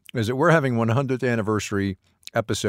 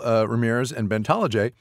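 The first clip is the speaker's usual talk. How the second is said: words garbled by a mouthful of cake; talking with cake in mouth; mouth full. Real, not acted. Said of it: "I have cake in my mouth".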